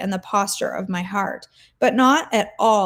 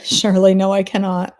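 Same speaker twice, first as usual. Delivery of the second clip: put-on Southern accent; 6 dB louder than usual. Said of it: "Shirley speaking Hebrew in a sweet Southern accent".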